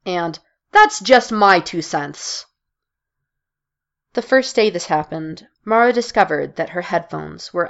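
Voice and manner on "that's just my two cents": mock coworker cliché. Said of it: "peppered with expressions such as".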